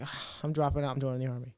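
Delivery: quietly fed up, giving up; a touch of defeated teen; dejected. Retold or imitated. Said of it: "I was down in the dumps".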